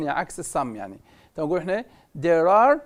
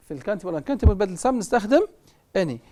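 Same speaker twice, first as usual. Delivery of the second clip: ordinary talk, nothing marked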